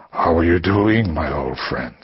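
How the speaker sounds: slow, drawn-out, lightly voiced menace; low breathy caller. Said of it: "low and breathy".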